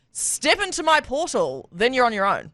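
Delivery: lightly voiced mysterious gatekeeper; portal-keeper game character. Gatekeeper inviting player into portal, slow lightly acted voice. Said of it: "mine might be something like".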